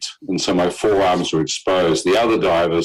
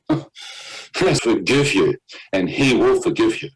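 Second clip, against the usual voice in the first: gentle voice; slower than usual. Retold or imitated. Mysterious voice speaks.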